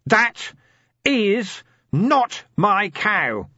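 slow, very high, loud scream; anguished scream, drawn out and shrill. Acted. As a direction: scream it at the gods like a tortured man. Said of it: "and screamed".

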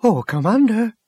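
high, lilting call for attention. A narrator's reading. Crewman at the data console summons his commander, calling out. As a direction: call over to a superior, pitched well up.

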